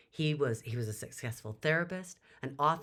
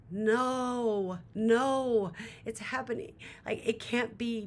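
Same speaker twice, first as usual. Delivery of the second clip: high, loud cry of denial; a desperate plea that it isn't happening; panicked dread; 9 semitones higher, 4 dB louder, slower than usual. Retold or imitated. Retold dread as bone breaks.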